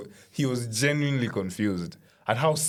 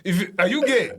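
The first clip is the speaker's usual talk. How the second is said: bewildered; 8 semitones higher, 5 dB louder than usual. Retold or imitated.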